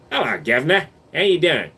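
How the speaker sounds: badly faked British greeting; British accent. Streamer tries a greeting for chat, botched British accent. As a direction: attempt a British accent and miss. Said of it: "I can't do a British accent".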